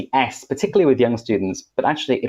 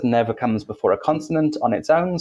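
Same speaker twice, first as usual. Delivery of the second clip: ordinary talk, nothing marked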